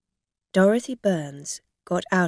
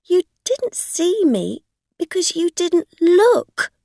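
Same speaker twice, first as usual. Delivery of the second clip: high, loud indignant outburst; angry; 11 semitones higher, 9 dB louder than usual. A narrator's reading. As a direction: throw the blame back furiously. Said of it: "Rosa said angrily".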